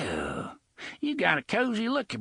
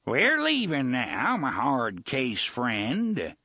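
pirate shouting terms to the gunslinger; raised voice; 7 semitones higher than usual. Acted. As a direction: call it across the bridge. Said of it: "Gasher raised his voice again".

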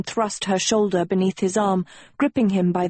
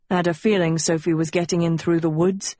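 panting; faster than usual. Acted. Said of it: "he panted".

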